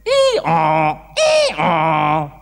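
a braying hee-haw; donkey hee-haw. Retold or imitated. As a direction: bray like a donkey. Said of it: "the donkeys went".

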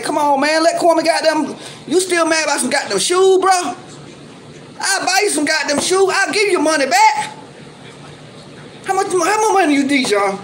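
high, heated and exasperated. Real, not acted. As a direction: raise your voice at him, fed up. Ranting at rival over shoes.

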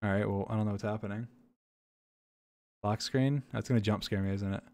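nervous, hushed voice; tense and quiet, bracing for a scare; scared horror game streamer. Real, not acted. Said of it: "My heart is beating".

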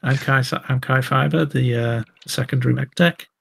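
put-on chirpy kid keen to make friends; young mech tech introducing himself to the leaving crew; eager young tech.

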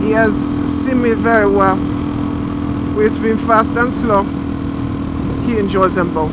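hammed-up French accent. Vlogger answering imagined critics, put-on French accent. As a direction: play a mock Frenchman, pitch lifting with the boasting. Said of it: "it's kinda French".

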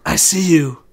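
low, halting dying words; slow last words with long pauses, low; dying movie hero. Retold or imitated. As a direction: imitate a film hero's final words, no accent. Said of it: "the accent is gone at this point".

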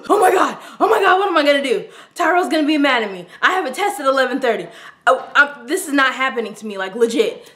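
fast, rushed panicked rambling; retold panic as the keys stay locked in. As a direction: blurt it out in a mild panic.

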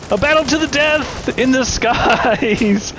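slow grand mock trailer voice; drawn-out epic announcer, laughing. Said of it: "mock announcer commentary".

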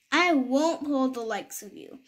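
level, lightly pompous refusal; flat refusal. Acted. Self-important big engine turns the toys down, level and pompous. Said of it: "the big engine puffed off".

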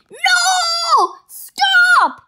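high, loud cry to stop him; panicked yell. Acted. Chief yelling at Dogman to stop, high panicked shout.

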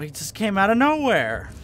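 startled protest. Real, not acted. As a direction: protest loudly, rising then dropping on "nowhere". Startled complaint after being caught.

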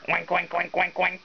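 oink through a chuckle; pig oinking with a laugh. Pretend. Mother playing a pig for her child, laughing oinks. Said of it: "I can be a piggy".

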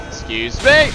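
"Excuse me" said high and sharp, rising on "me"; high indignant excuse me. Real, not acted. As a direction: squeak "Excuse me" up high in mock outrage. Mock indignant at boss.

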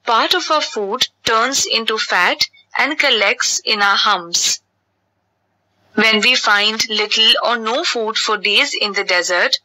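mother camel patiently explaining; lightly voiced mother teaching her child.

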